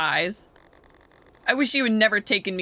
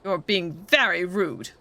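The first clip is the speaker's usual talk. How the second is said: stiff robot voice, slow. Acted. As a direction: speak slow like a prim robot. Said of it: "stop talking like a frickin' robot".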